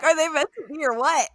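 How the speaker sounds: high, loud gleeful squeal of a question; excited fangirl. Retold or imitated. Host gushing to co-host about the couple, excited squeal. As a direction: gush like a fan who ships them. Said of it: "I was like".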